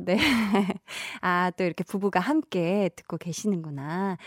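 ordinary talk, nothing marked

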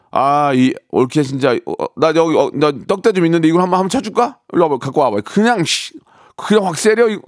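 hammed-up tough sister-in-law threat; mock threat. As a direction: bluster like you'll pick a fight. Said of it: "됐죠? 이제 이렇게 하면". (올케에게 덤비듯 장난스럽게 화내기)

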